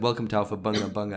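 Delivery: fast mock hype man intro. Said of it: "be the kind of hype man in the background".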